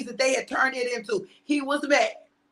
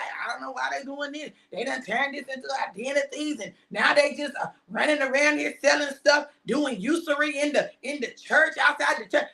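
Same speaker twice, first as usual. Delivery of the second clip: mock passive grumble. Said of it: "just be like".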